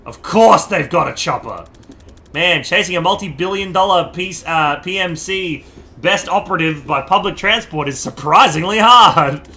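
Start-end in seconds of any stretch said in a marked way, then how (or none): 2.3-9.5 wrong character voice. Acted. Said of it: "That was the wrong voice".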